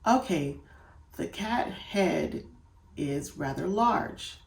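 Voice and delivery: slow model reading. Shown as a demonstration. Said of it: "you will do something like this".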